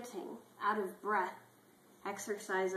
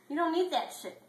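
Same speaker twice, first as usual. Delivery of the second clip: high pep talk; 9 semitones higher, 5 dB louder than usual. Acted. Clifford repeats the advice, higher.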